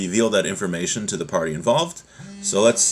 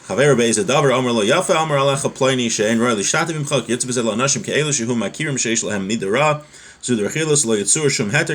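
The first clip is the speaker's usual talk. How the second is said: quick, running Hebrew recitation; rapid text reading; much faster than usual. Acted. Teacher reading the Hebrew source to students before translating, rapid reading. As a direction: read through the source text briskly.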